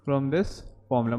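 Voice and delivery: slow, quiet dictated repeat; slow dictation. Shown as a demonstration. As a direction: repeat it slowly so they can write it. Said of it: "लिख लेना".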